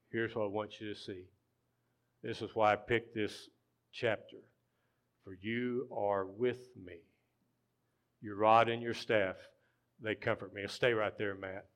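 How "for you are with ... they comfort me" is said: slow, measured, with pauses; slow Psalm reading. Real, not acted. Pastor showing why he picked this chapter, slow and deliberate. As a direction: give each phrase room to sink in. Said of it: "We're just gonna read it slow".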